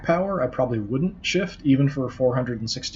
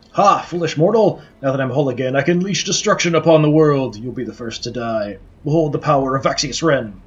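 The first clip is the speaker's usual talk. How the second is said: gloating skeleton villain, louder; booming echoing villain monologue; 5 dB louder than usual. Acted. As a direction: proclaim doom like a villain.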